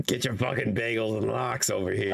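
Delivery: lightly voiced grumpy New Yorker; a hint of irate New York deli patter; pissed-off Jewish New Yorker. Riffing on the New Yorker joke, mild mock accent. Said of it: "fucking pissed off Jewish New Yorker".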